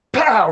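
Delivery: drawn-out pow; imitated punch sound. Storyteller sounds out the right cross, punchy pow. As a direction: verbal sound effect of a knockout blow.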